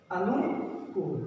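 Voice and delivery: अनुकूल said slowly with the long ू; slow correct form. Shown as a demonstration. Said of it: "जो गलत है".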